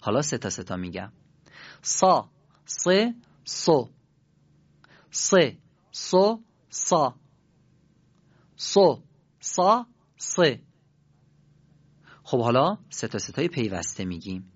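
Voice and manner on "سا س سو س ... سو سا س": higher, very slow drill: "سو، سا" with an emphatic ص, teeth pressed together; slow heavy sad. Shown as a demonstration. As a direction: draw out "سا" and "سو" slowly with a thick, full throaty ص. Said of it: "همین رو با دقت تکرار کنید".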